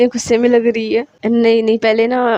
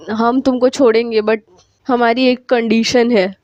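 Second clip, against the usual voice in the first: put-on boyish disguised voice. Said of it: "आवाज़ change करती है ... थोड़ी सी लड़कों की तरह".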